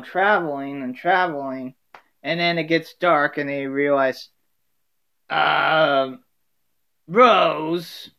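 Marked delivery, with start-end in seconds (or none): 5.3-8.1 a louder, slower Dorothy nudging Rose; a lightly voiced Dorothy, deadpan; Dorothy telling Rose they're lost; Dorothy inflection. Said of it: "inflections of each of the characters".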